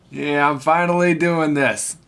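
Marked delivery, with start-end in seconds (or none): none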